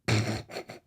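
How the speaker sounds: imitated crazy giggling, kept soft; soft mock giggle. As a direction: mimic someone giggling like crazy. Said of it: "giggling like crazy".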